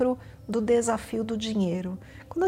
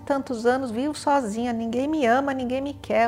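mock self-pitying wail, louder; hammed-up poor-me complaining; whiny lament; 4 dB louder than usual. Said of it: "lamúria e mimimi".

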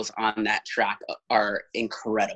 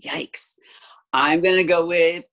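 whispering; 6 semitones higher, 5 dB louder than usual. Real, not acted. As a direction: whisper it like a secret. Confessing a touchy pick.

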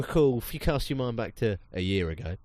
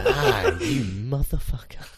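high louder cry then slow drawn-out insult; mock outrage; 6 semitones higher, 3 dB louder, slower than usual. Re-enacting his reaction to the villain, mock outraged. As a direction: fake betrayed outrage. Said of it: "It's like".

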